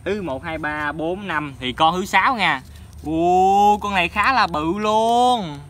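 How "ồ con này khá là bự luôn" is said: impressed. Real, not acted. Impressed by big fish.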